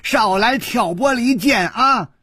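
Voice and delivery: high, insistent objection; calling out loudly. A narrator's reading. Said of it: "大声说".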